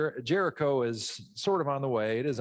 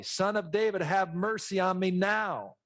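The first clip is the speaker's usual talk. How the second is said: crying out louder; 6 semitones higher than usual. Retold or imitated. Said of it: "he cried out even more loudly".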